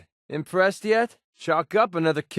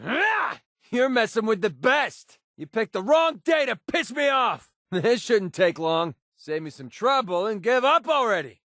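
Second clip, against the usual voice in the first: raised cocky threats; combat taunts; 4 semitones higher than usual. Acted. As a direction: taunt the enemy before fighting.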